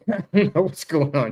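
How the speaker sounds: words spilling through a laugh. Real, not acted. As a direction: say it while laughing. Laughing at lost connection.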